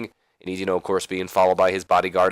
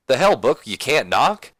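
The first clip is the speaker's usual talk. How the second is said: annoyed outburst; 4 semitones higher, 4 dB louder than usual. Acted. Boss startled by wrestler bursting in.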